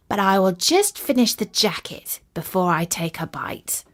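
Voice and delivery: whispered to himself; whispered aside. Acted. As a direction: breathe it out under the breath. Tailor muttering to himself.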